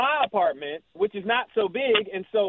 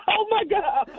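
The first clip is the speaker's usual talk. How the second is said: giddy anticipation; 12 semitones higher than usual. Real, not acted. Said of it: "I'm giddy right now".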